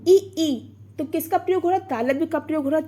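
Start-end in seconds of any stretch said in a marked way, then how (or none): 0.1-0.7 ई sounded alone, twice, as a pure vowel; vowel demonstration. Shown as a demonstration. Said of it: "इसको आप बोल के भी देख सकते हैं".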